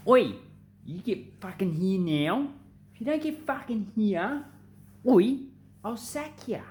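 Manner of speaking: demanding boss. Retold or imitated. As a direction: threaten a worker with the sack. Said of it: "a word of demand".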